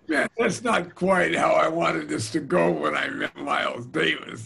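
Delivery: half-shouted, with mock frustration; exasperated outburst. Drummer complains about how meeting Miles went, loud and exasperated. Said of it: "I said".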